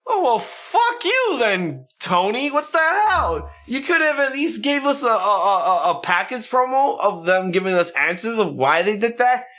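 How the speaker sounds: imitating an outraged fan; mock outburst at Tony. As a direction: vent at the promoter in disbelief. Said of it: "I'm like".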